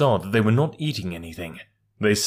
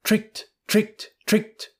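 much higher gleeful chuckle; chuckling; 12 semitones higher, slower than usual. A narrator's reading. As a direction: crow with glee. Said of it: "chuckled Rikki Tikki".

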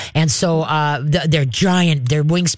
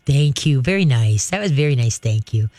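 calm praise; 3 semitones lower than usual. Shown as a demonstration. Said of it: "as soon as he quiets".

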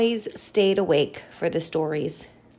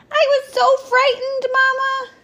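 put-on high, scared child voice; frightened little bat; 5 dB louder than usual. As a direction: say it shaken and small.

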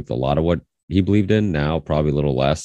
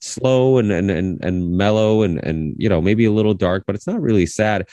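higher-pitched, hedging persuasion; trying to convince; 6 semitones higher than usual. Retold or imitated. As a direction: act out gently arguing with a small child. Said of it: "trying to convince her other".

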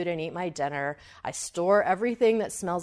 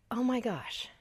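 breathless frightened whisper; panicked whisper; 4 semitones higher, 5 dB quieter than usual. Retold or imitated. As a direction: whisper it as if the bear could hear you. Panicked reaction to the warning sign.

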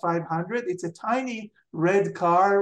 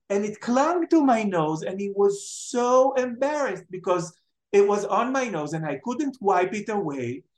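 high, lively storytelling as the aunt; excited aunt retelling; 6 semitones higher than usual. Retold or imitated. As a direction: bubble over with the gossip.

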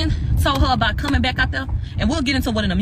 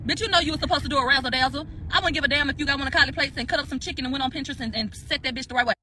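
higher-pitched, outraged comic tirade; indignant rant; 4 semitones higher than usual. Real, not acted. Host scolding Megan over the nachos, indignant rant. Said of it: "y'all excuse her rant".

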